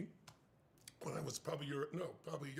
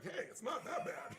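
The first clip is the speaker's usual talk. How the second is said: calming laugh; 9 semitones higher, slower than usual. Retold or imitated. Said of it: "I'm trying to calm him down".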